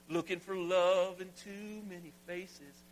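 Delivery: a lightly crooned country twang. Shown as a demonstration. Pastor crooning the chorus for his church in country twang. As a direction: lean into the Nashville groove. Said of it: "get on my little Nashville groove here".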